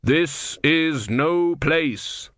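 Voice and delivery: grave and measured, like Death. A narrator's reading. Death speaks.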